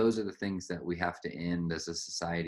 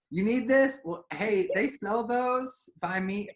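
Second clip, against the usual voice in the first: high, loud fussing mom voice; a hammed-up mom, much higher and louder; imitating classic mom; 14 semitones higher, 7 dB louder than usual. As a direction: play the doting mother pushing food. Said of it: "classic mom".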